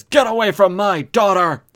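loud, high-pitched acted yell; protective shout. Father shooting at his daughter's attacker, fierce protective shout.

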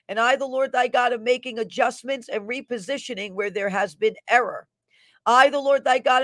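fervent prophetic declaration; prophetic proclamation. Acted. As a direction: proclaim it like a prophet over the crowd. Reads a prophetic word.

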